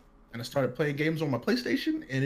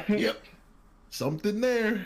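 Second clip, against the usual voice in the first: a light imitation of a flat, matter-of-fact doctor; quoting the doctor again, dry and deadpan; mock deadpan doctor; 7 semitones higher, slower than usual. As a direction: say it like it's nothing. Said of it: "I will never forget this".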